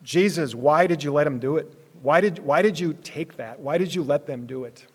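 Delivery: pleading why question. Pretend. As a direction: press the question hard, pleading. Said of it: "here's a why question".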